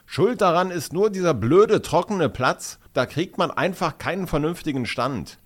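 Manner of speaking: high-pitched, indignant grumbling; acted outburst of annoyed complaint; loud scolding. A narrator's reading. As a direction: rant crossly, starting loud and high. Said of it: "schimpft er lautstark".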